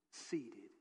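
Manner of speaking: Seated said low and falling; emphatic demo. Shown as a demonstration. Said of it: "I want you to go like this".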